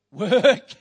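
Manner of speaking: shouted answer. Real, not acted.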